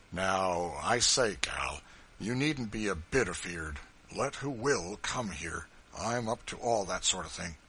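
big man promising she is safe; a bluff Kentucky host, mildly voiced; rough but kindly farmer. John reassures Eliza.

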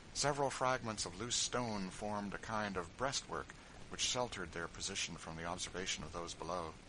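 ordinary talk, nothing marked

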